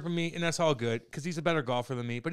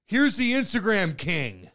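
slow, drawn-out mock announcement, slightly raised; mocking call-out; 4 semitones higher, 4 dB louder, slower than usual. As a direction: announce the nickname as a taunt, pitched up. Retold public taunt from Holly.

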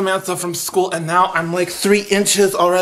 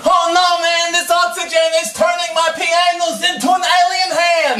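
lightly voiced little boy, pitched higher; little kid voice; 9 semitones higher than usual. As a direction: play an excited small kid. Kid playing astronaut.

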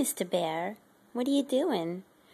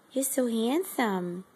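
tender praise; 4 dB quieter, slower than usual. Real, not acted. Praising the pet.

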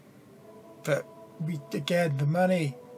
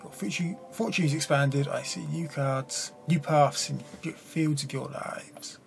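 fortune teller. Acted. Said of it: "Fortune teller".

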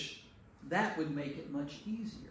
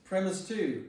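mock attorney; 4 semitones higher, 4 dB louder than usual. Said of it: "as an attorney".

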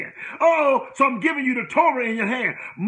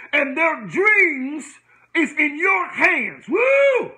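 excited shout; 4 semitones higher, much slower than usual. Real, not acted. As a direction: let it burst out of you, the Spirit rising. Preacher whipping up the congregation.

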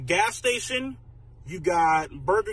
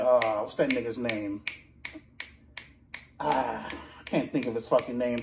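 low mumbled voice; 5 semitones lower, 4 dB quieter than usual. Acted.

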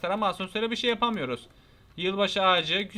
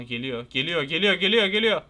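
repeated warning building louder; urgent alarm; 3 semitones lower, 4 dB louder than usual. Real, not acted. Player sees someone coming and must hide, urgently alarmed.

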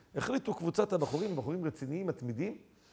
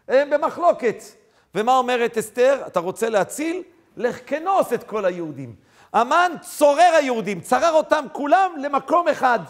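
loud, raised sermon delivery; forceful preaching; 6 semitones higher, 9 dB louder than usual. Acted. Preacher expounds Esther's answer to Haman's scheme, forceful preaching. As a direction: drive each point home at full voice.

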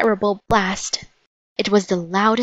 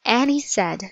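usual speaking voice

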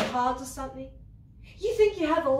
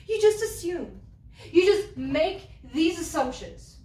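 angry; 3 semitones higher, 4 dB louder than usual. Acted. Accusing Andrew angrily.

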